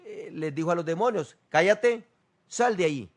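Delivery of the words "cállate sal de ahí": stern rebuke. Retold or imitated. Jesus rebuking demons.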